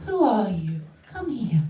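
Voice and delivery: loud, sharp order from the guru; commanding shout. Retold or imitated. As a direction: stop them dead with a loud command. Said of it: "Gurudev came".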